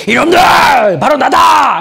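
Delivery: shrill, thundering, booming shout, high and loud. Retelling a Bible scene, acts out the line as a very loud shout. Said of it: "이렇게 목소리가 커서".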